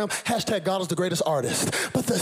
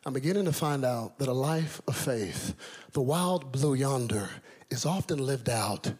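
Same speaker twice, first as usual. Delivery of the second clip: sermon. Acted. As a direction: draw the church into the message. Preaching sermon.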